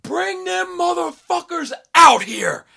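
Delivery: imitated yell, very high and slow; a rapper. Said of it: "a rapper starts yelling".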